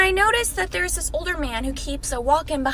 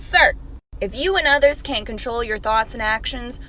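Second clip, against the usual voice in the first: louder, forceful comeback to the man; firm retort; 4 dB louder than usual. Retold or imitated. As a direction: tell him off with force. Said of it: "I said".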